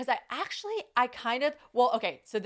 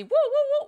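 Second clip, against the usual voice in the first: high, loud siren whoops; imitated motorcycle siren; 6 dB louder than usual. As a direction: whoop like a little police motorcycle.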